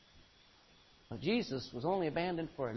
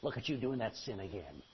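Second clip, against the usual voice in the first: devil's taunt; 6 semitones lower than usual. Retold or imitated. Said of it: "the devil step in there and say".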